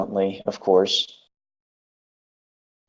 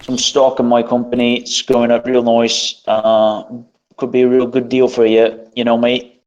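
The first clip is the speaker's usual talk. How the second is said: mock Luxembourg accent; 2 semitones higher, 4 dB louder than usual. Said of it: "with his big fucking accent like that".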